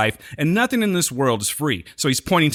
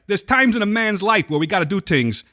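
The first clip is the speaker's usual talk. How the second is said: put-on New York accent; 6 semitones higher than usual. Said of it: "talk like they're from New York".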